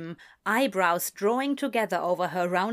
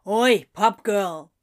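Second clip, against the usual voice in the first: loud, drawn-out hail; calling out; 5 dB louder, slower than usual. Acted. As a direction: call slowly across the bar for service. Calling the barmaid over.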